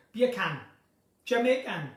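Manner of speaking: bacon said as beer can, Jamaican style; Jamaican accent attempt. Shown as a demonstration. Teaching the beer can trick, Jamaican accent. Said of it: "you have to say beer can".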